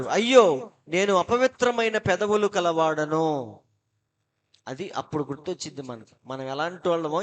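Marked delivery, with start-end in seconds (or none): 0.0-0.7 crying out. Retold or imitated. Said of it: "గట్టిగా అరుస్తున్నాడు". 0.9-3.6 slow, pleading confession on అపవిత్రమైన; mock anguished cry. Isaiah crying out before God's throne, slow lament. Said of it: "గట్టిగా అరుస్తున్నాడు".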